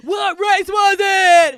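loud, slow, high shouted question; demanding, loud and slow. Real, not acted. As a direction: bellow it, drawn out. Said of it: "demanding the race".

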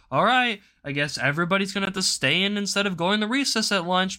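mock scolding teacher voice. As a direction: announce the class punishment like an annoyed teacher. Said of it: "the teacher would go".

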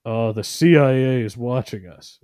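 paranoid caveman. Retold or imitated. A caveman warning his tribe about the CIA, mildly hammed up. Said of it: "a caveman who had that same paranoia".

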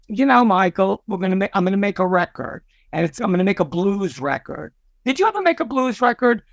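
a hint of a singer's Brooklyn voice, quick on the last question. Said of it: "that Cyndi Lauper, Brooklyn Queens voice".

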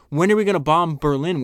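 loud call from the crowd; shouted question. Retold or imitated. A woman in the crowd shouts to Churchill, loud call. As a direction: yell it across the street at him. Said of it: "One woman shouted".

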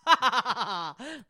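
demon laugh. Retold or imitated. Love demon taunting the couples, put-on cackling. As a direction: laugh like a haunted-house demon.

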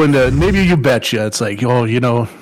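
put-on light Minnesota accent, you betcha folksiness; mild Minnesota neighbourly voice. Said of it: "the Minnesota thing".

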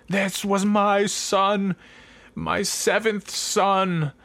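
villain monologue in a hint of gritty New York; bad New York accent. Villain revealing himself to the detective, in a lightly done New York accent. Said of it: "a bad sort of gritty New York accent".

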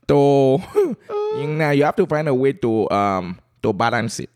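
thick, put-on Calabar accent. Guest explains balancing family life to host, Calabar accent. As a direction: give advice in a playful Calabar accent. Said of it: "a very thick Calabar accent".

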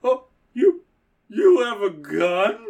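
high panicked Jesse. Acted. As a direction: squeal it out in alarm. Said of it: "Jesse's like".

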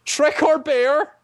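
very high, drawn-out goblin voice; goblin king. Acted. Goblin king puts the choice to the party, very high slow creature voice. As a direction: stretch it into a slow, high-pitched challenge. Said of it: "Goblin King lifts up his arms".

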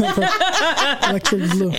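laughing, slow and drawn out. Real, not acted. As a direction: stretch it out through a laugh. Repeats answer, laughing, drawn out.

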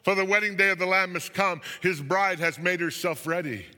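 triumphant proclamation, easing toward the end; jubilant shouting. A narrator's reading. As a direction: shout for joy like a roaring throng. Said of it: "And they were shouting".

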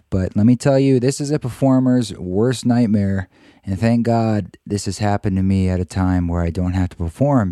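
husky sick voice; frog voice. Real, not acted. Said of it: "I've got that awesome sick voice".

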